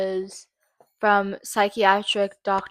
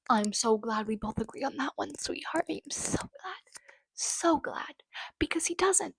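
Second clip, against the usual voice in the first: sarcastic; 5 semitones higher, 8 dB quieter than usual. Real, not acted. Mocking the doctor's conclusion.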